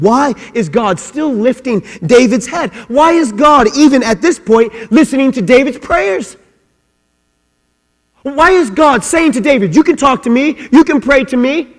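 high, loud, insistent questions; full-force preaching. Real, not acted. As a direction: drive the questions home to the congregation.

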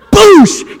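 loud, high mouth-made crash; imitated impact boom. Storyteller imitating a ball smacking a face, explosive noise. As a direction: burst out an explosive hit noise.

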